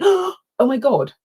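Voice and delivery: hammed-up sudden dread, slowed; Mister Bean panic. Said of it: "a Mister Bean moment".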